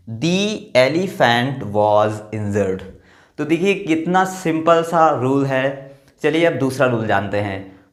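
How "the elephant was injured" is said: "The elephant was injured" very slow, "The" as "dee". Shown as a demonstration. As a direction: read it slowly as a model sentence. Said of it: "दी pronounce कर रहे हैं". (धीरे से, "The" को "दी" बोलें)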